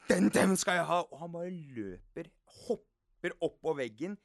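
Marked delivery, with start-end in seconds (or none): 0.1-1.0 greedy exclamation. Retold or imitated. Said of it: "han bare ser en T V".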